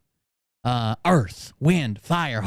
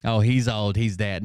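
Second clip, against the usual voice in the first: lower, flat mock of her brushing it off; mock dismissive woman; 5 semitones lower than usual. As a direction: sneer it back in her voice.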